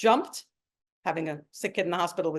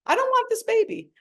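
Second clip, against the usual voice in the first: retold crying plea; 12 semitones higher, 3 dB louder than usual. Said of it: "And I'm crying like a lunatic".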